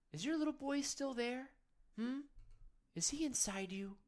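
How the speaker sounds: gently whispered question; intimate whisper. Real, not acted. Intimate question about inner boy.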